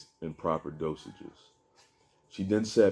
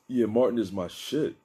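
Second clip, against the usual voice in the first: enthusiastic; 5 semitones higher, 4 dB louder than usual. A narrator's reading. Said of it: "enthusiastically agreed".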